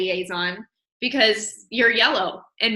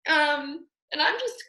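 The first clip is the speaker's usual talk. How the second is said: near tears; 5 semitones higher than usual. Real, not acted. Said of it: "I'm gonna ugly cry".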